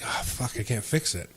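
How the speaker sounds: whispered curse under breath; muttered dismay. Retold or imitated. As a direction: quietly realize the mistake. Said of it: "I was like".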